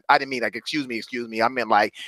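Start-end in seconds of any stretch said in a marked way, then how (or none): 0.5-1.4 soft, dainty "Excuse me, excuse me" with a lilt; mincing, overly polite "Excuse me, excuse me"; prissy excuse me. Shown as a demonstration. Coach mocks the wrong way to say it, dainty and prissy. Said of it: "I didn't want to really say it like that".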